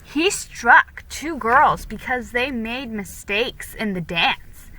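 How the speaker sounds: put-on gossiping girl prattling. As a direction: gossip to unsettle Felicity. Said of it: "She prattled on".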